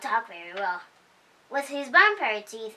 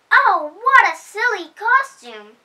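mocking animals; 8 semitones higher, 8 dB louder than usual. A narrator's reading. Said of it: "The animals laughed and laughed".

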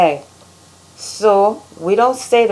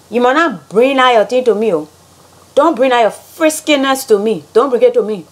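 higher, sassy Liberian English; Liberian accent; 3 semitones higher than usual. Shown as a demonstration. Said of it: "how Liberians say things".

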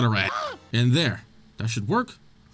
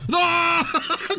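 sudden high yelp of fright; startled yell. Real, not acted. Gamer startled by a jump scare, yells in fright. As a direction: jolt out a short scream as something jumps out.

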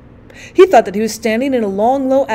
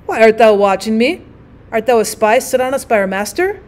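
a sharp, louder challenge from the weaver; angry; 4 dB louder than usual. Acted. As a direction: snap the question at the stranger. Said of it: "looked at him angrily and said".

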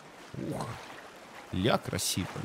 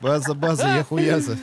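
laughing; 4 dB louder than usual. Pretend. Mocking the radio call.

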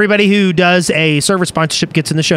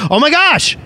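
tag; 8 semitones higher than usual. Real, not acted. Reacts to sudden donation.

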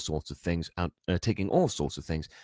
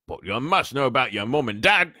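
loud, raised giant's voice; wildly incredulous giant; 6 semitones higher, 7 dB louder than usual. A narrator's reading. Giant presses the boy about his parents, incredulous. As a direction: insist in disbelief. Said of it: "Hagrid stared wildly at Harry".

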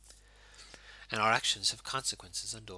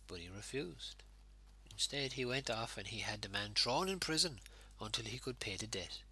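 measured, earnest Bible reading to the congregation; preacher reading the Gospel aloud; scripture reading. Acted. Reads the Bible passage aloud.

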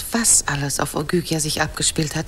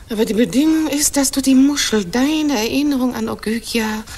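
raised insistent voice; firm louder demand; 4 semitones higher, 5 dB louder than usual. Acted. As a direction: press the condition, louder and higher. Wife sets her condition. (laute, bestimmte Forderung)

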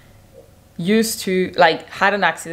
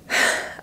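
tired sigh; 4 dB quieter than usual. Real, not acted. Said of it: "I'm out of breath".

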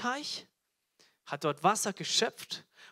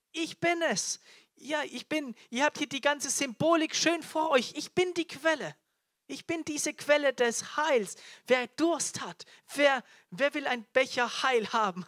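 high, raised, insistent proclamation; crying out; 6 semitones higher, 4 dB louder than usual. Acted. Jesus declares himself the spring, calling out high. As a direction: call out to everyone who is thirsty. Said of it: "der da schreit".

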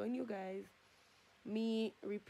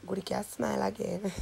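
lips held apart by retractor; talking with mouth stretched open; speaking with cheek retractor in; 18 dB louder than usual. Real, not acted. Seen 2: Clear cheek retractor holds lips open; brief black frames mid-stretch.

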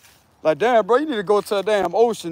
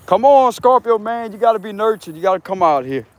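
lightly voiced coaxing lady, starting higher; Mother Nature; 3 semitones higher than usual. Mother Nature calls Scorpio back out, lightly acted coaxing. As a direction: coax like Mother Nature, pitch easing down. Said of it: "She called me back out here".

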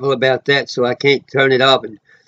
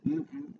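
choked-up hum; 12 semitones higher, 20 dB quieter than usual. Real, not acted. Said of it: "I'm gonna start crying".

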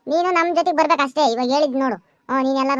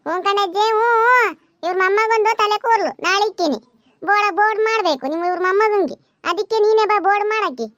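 slightly raised calling voice; humouring granny; 3 semitones higher than usual. Acted. Teasing reply to granny who misheard, called out. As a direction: pitch it up for poor ears, mock-agreeing.

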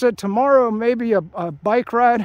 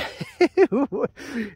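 chuckle; 4 semitones higher than usual. Real, not acted. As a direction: chuckle to yourself before the punchline. Amused by his coming thought.

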